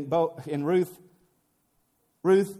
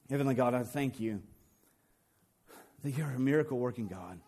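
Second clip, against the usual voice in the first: prayer; 2 semitones higher than usual. Acted. Leads closing prayer.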